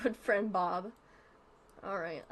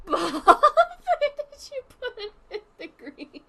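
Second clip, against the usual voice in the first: high, slow whining question; whiny drawn-out plea; 7 semitones higher, 6 dB louder, much slower than usual. Pretend. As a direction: stretch it out like a pleading child. Asking again, exaggerated.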